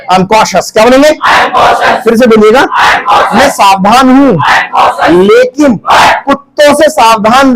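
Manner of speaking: projected prompts, pausing for the chorus; classroom drill call-out. Real, not acted. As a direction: call out each phrase for the class to repeat.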